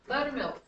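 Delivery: "buttermilk" with BUT leaned on, then falling; first-syllable stress. Shown as a demonstration. Teacher showing the stressed first syllable, crisp stress. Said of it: "First syllable is stressed".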